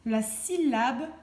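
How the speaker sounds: slow, careful "la syllabe point" with "point" set apart; slow and deliberate. Shown as a demonstration. Teacher stressing the shared syllable "point" for a pupil. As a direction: lay out "point" so the child can hear it. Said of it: "j'entends dans chacun".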